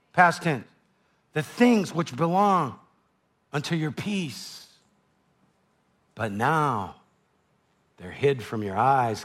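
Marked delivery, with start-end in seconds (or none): 1.3-9.2 lament. Acted. Jesus lamenting over city.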